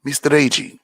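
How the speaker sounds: lightly voiced counselor saying the name; imitating counselor. Counselor greeting him by name, lightly imitated. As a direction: say it the way the old counselor did. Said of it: "she used to always call me Mister Agee".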